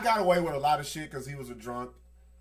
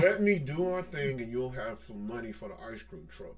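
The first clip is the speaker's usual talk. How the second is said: lightly voiced sweet-talking bribe; mild mock sweet talk to little sister; coaxing big brother; 5 dB quieter than usual. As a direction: coax her like a con man. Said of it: "listen to the talk I would give her".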